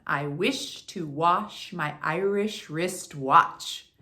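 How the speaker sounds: "I wish to wash my Irish wristwatch" spoken slowly, every word separate; slow tongue twister. Shown as a demonstration. Coach modelling the twister slowly before repeats. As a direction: say it slow and clear first. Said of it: "start first with the first one".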